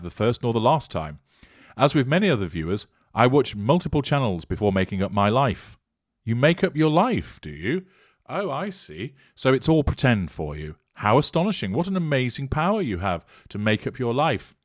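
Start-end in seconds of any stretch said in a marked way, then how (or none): 6.2-14.5 sarcastic mock wonder. Real, not acted. Sarcastic reply to a typo.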